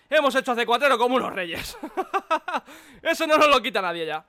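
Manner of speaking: chuckling while talking; laughing. Real, not acted. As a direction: laugh through it. Laughing over success.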